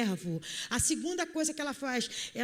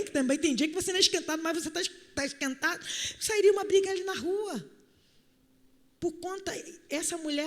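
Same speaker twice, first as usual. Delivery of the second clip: ordinary talk, nothing marked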